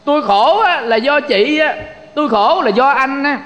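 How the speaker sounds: blaming complaint. Acted. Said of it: "Có người đổ thừa".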